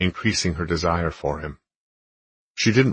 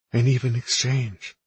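smiling; 7 semitones higher than usual. A narrator's reading. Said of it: "she smiled".

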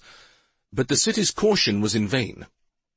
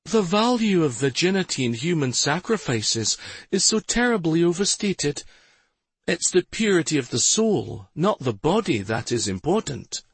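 sinister woman; 7 semitones higher than usual. A narrator's reading. Sinister captor speaking.

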